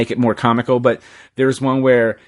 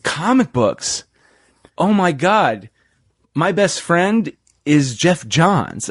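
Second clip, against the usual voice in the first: mock gushing, drawn out and higher; excited quote; 5 semitones higher, much slower than usual. Doctor gushing to the skeptical speaker, drawn-out and excited. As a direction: gush like a starstruck fan.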